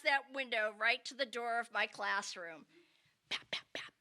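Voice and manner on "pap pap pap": soft imitated knocking; whispered knock. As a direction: tap it out in a whisper. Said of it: "knocking sound imitated".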